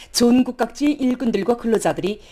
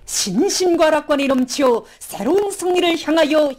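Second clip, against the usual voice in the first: rousing slogan; 4 semitones higher, slower than usual. Acted. Second reader chants slogan.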